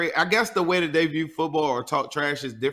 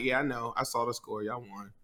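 mild imitation of a shrugging teen, softer; nonchalant son; 3 semitones lower, 7 dB quieter than usual. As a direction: toss it off lightly, as if it barely matters. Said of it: "he's ex real nonchalant".

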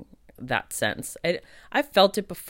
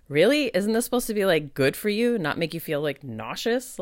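incredulous question; 4 semitones higher than usual. Retold or imitated. To the circle about the selenite: high, incredulous. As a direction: ask it as if the crystal betrayed you. Gift crystal makes her nauseous.

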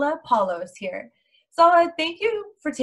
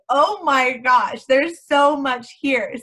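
slow, louder, drawn-out amazement; amazed oh my gosh; 3 semitones higher, 6 dB louder, slower than usual. Retold or imitated. Host recalling reading the guest's LinkedIn, slow amazed gush. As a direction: stretch it out like you're floored by what you read.

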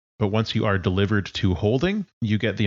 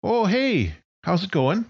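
higher, friendly voice of a friend; 11 semitones higher than usual. Acted. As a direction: answer the call like an old friend.

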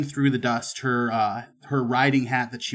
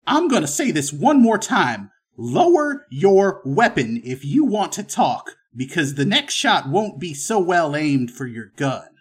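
loud, high commanding voice; stern gunman, final warning; 5 semitones higher, 5 dB louder than usual. Acted. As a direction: warn them one last time as the armed stranger.

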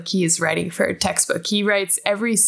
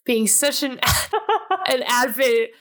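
sarcastic praise broken by a laugh; lightly ironic compliment, laughing midway; 2 semitones higher than usual. Real, not acted. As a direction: tease a friend with mock praise. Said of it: "I say that in a sarcastic tone".

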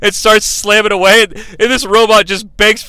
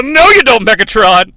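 mock yell at kids; 2 semitones higher, 5 dB louder than usual. Dad snatches the last pizza slice, mock shouting. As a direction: bark it while snatching the pizza. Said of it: "grab it and yell".

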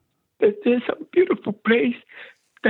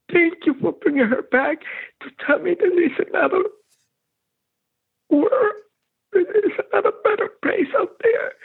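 choked up, barely holding it together; tearful; 6 semitones higher than usual. Real, not acted. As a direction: voice high and breaking with tears. Emotional retelling continues.

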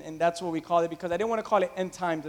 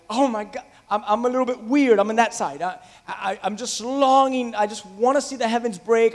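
higher and louder, eager imitated yearning; excited longing; 4 semitones higher, 4 dB louder than usual. Preacher voicing believers excited for heaven, eager longing. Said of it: "they get excited about it".

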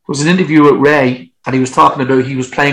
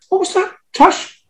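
high startled question; surprised. Retold or imitated. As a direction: shoot up in pitch, startled.

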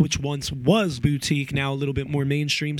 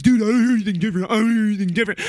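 imitating Sean; 6 semitones higher, 5 dB louder, much faster than usual. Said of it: "He's like".

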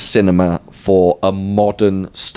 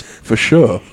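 hookah server voice. Retold or imitated. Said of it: "his catchphrase was".

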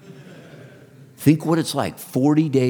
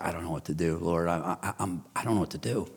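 helpless prayer; 3 semitones lower, 7 dB quieter than usual. Retold or imitated. His helpless prayer beside crying wife.

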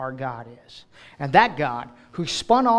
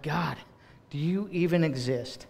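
softer, hollow, doubting question; quiet doubting cry; 6 dB quieter than usual. Acted. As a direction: ask if God is even there, defeated. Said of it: "those moments when we're like".

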